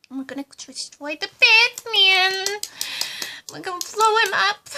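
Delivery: gleeful villain frenzy; Harley getting wildly excited about the plan; overexcited. Acted. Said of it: "don't get too excited".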